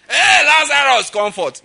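full-voiced, high, drawn-out shout; Jesus. Jesus shouting at the tomb of Lazarus, loud commanding call. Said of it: "The time he shouted at the tomb of Lazarus".

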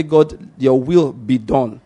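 slow, deliberate declaration; authorizing declaration. Shown as a demonstration. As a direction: declare it with measured authority, word by word. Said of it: "it was an authorization of the will of God".

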